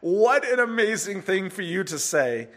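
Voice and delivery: incredulous, mocking marvel; laughing at them. Blind man mocking the Pharisees' blindness, incredulous. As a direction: scoff at how absurd it is. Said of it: "saying it with that tone of just laughing at them".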